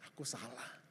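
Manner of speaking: low, soft confession; hushed, humbled admission; retold apology. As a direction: apologise gently to your wife. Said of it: "saya ngomong gini".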